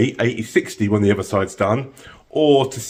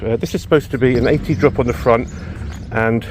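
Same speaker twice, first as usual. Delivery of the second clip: a bit breathless; out of breath. Real, not acted. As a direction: talk while catching your breath. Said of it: "I'm a bit out of breath".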